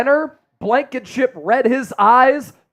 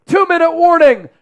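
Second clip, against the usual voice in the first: higher, hyped announcement; excited; 5 semitones higher, 3 dB louder than usual. Real, not acted. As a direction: call it out pumped up. Excited hype during countdown.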